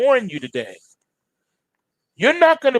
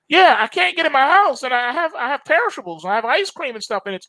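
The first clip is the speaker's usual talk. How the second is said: panicky caller; 9 semitones higher than usual. Pretend. Desperate caller pleading.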